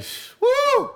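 high, hammed-up shush and woo; mock hushing the crowd. Star shushing the cheering crowd, hammed-up. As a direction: hush the crowd like a star on stage. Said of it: "just be like".

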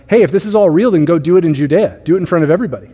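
lightly acted dare to a brother; challenging. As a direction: imitate a doubting brother daring him, easing off toward the end. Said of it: "challenging his brother and being like".

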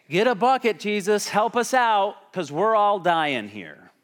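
frantic disciples crying out for help; desperate plea. Retold or imitated. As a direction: beg for help over the storm. Disciples pleading in the storm.

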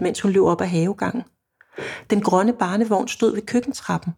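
measured story narration; oplæsning. A narrator's reading. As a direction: read the novel passage evenly, pausing between sentences. Reads passage from own novel aloud. (rolig højtlæsning af roman)

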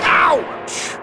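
sharp, very high yelp of pain. Acted. Lord crashing into the grand piano, high yelp. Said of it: "yelped the Lord".

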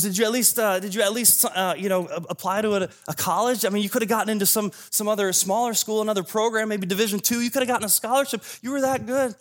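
acted dad pleading with his son, stumbling into it; incredulous father. Father presses third son about college, incredulous.

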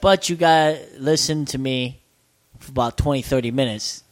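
low-pitched manager impression; manager laying terms. Voicing manager's sales condition.

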